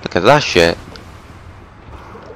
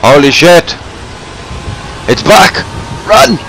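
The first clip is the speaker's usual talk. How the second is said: panicked yell; 5 semitones higher than usual. Real, not acted. Monster returns, panicked yell.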